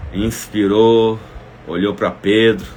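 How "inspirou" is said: audible breath in. Shown as a demonstration. Preacher shows the congregation how Jesus breathed in, a slow inhale. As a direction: breathe in loud before speaking. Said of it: "ó. Inspira aí, faz assim".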